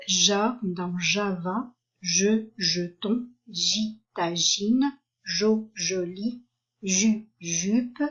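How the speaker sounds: each syllable like "je" or "jo" said alone, then its word, like "jeton" or "joli"; slow phonics drill, "jo" set apart before "joli"; syllable-by-syllable reading. Shown as a demonstration. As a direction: sound out "ju, jupe" slowly, syllable first and word after.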